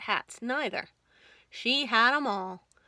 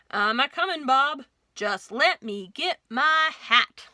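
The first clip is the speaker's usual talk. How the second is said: loud cowboy holler back; calling out; 6 dB louder than usual. Acted. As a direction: shout down to Bob while dressing. Sheriff calls out to deputy.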